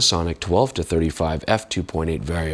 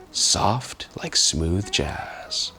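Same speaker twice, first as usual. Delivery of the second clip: whispering; 4 dB quieter, much slower than usual. Acted. Soft lens likened to jazz.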